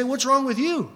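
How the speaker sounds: mock-scornful question, pitched high; scornful challenge. Ungodly challenging the believer who said no, mock-scornful. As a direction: lightly imitate an incredulous scoffer. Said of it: "they say".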